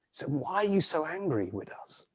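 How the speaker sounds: soft, composed guardian's question; gentle, hushed reproach; calm questioning. Acted. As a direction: ask it quietly, without any fight. Lion gently questions the raging Nian.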